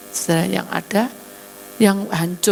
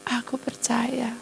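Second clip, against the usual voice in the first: soft slow whispered yes; slow breathy tearful answer; 6 semitones higher, 6 dB quieter, slower than usual. Acted. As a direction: whisper it through tears. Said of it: "Dia menangis".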